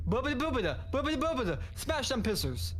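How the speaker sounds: high silly put-on Cody voice; hammed-up impression of Cody. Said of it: "I'll be Cody".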